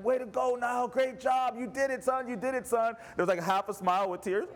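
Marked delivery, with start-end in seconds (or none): 0.0-2.9 mock cheering. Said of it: "I started cheering and clapping for him".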